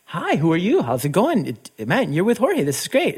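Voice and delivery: chatty welcome with pitch hops; friendly enthusiasm. Retold or imitated. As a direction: imitate a server thrilled to meet a friend's companion. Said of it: "and just totally like".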